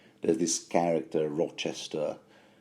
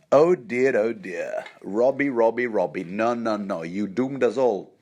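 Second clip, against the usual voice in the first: dismayed mother; 3 semitones higher, 4 dB louder than usual. Acted. Podcaster voicing mother telling Robbie he doomed them, mock dismay. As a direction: lament over a foolish son, a touch hammed-up. Acting out Catelyn's dismayed thought.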